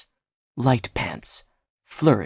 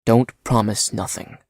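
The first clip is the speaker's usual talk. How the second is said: gently. Acted. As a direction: reassure him kindly. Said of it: "said Martinez gently".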